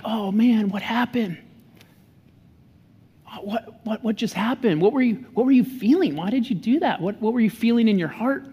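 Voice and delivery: gentle calm parent. Retold or imitated. Dad calmly asking his upset daughter about her feelings, gentle. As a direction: gently ask the kid what happened. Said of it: "A better approach might be something like this".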